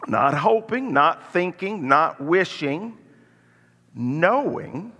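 each word set apart by long pauses; emphatic contrast. Shown as a demonstration. Preacher contrasting hoping with knowing, emphatic pauses. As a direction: build the list to land on knowing. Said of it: "the word know is used".

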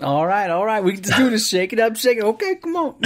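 rising, anxious pep talk; nervous self-talk. Retold or imitated. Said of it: "like, shaking up".

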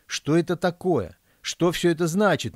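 high, urgent questioning; asking while running. A narrator's reading. Beauty to king while fleeing, urgent questions. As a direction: demand an explanation on the run. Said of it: "на бегу спрашивала красавица".

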